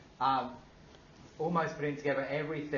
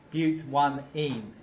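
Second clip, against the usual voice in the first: slow, spelled out; much slower than usual. Shown as a demonstration. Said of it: "That looks terrible, but".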